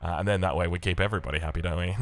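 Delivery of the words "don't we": laughing. Real, not acted. Jokes about morning voice.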